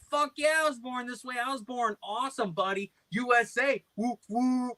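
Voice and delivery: high, whooping prank voice; mock patriotic boasting. Plays himself boasting to caller.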